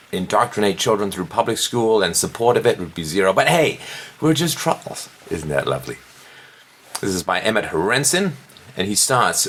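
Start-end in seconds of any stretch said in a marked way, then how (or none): 3.3-6.0 mock-innocent shrug; sarcastic. Real, not acted. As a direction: toss it off with a sneer. Mocking the troll label.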